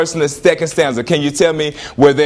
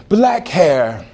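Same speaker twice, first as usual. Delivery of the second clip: mock poem recital. Shown as a demonstration. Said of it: "Let's say".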